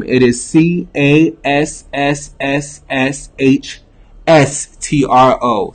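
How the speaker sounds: slow, hissed letters with a long s; drawn-out s like a snake. Shown as a demonstration. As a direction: stretch the s like a hissing snake. Spelling Cash App name slowly.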